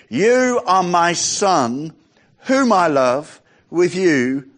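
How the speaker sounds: slow, tender divine voice; slow tender reading. Acted. Preacher voicing heaven's voice, slow and tender. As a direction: speak it like a loving father.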